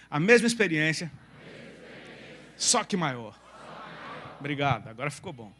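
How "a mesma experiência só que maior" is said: livelier repeat. Shown as a demonstration. Preacher prompting the congregation to repeat without sadness, livelier. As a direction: say it with more punch for them to echo. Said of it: "Você falou com um tom de tristeza".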